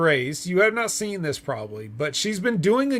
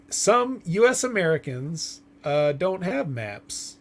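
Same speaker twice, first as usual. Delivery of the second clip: lightly voiced pageant speech, halting; pageant contestant; slower than usual. Co-host mimics a pageant contestant's speech, lightly hammed-up. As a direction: give a mildly mock pageant answer, slowing down. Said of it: "like a beauty pageant contestant giving a speech".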